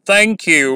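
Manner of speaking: "thank you" with stress on THANK, light "you"; strong first word, weak second; trochee stress. Shown as a demonstration. Teacher giving a common trochee example, stress on "thank". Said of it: "वो stressed है".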